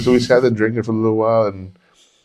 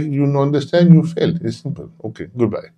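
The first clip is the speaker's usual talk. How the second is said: high breezy teacher voice; imitating the offhand teacher; teacher quoted; 7 semitones higher than usual. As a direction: dismiss him, higher and casual. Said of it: "He's like".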